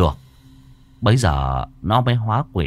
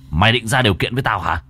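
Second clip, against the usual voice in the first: angry master; faster than usual. Acted. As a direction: press the threat harder. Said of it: "máu đã dồn lên não". (giọng thầy nhanh, gắt hơn)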